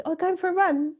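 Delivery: high, surprised question from a stranger; mock stranger asking about a run; surprised woman. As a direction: ask it like a startled onlooker. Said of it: "when the woman goes".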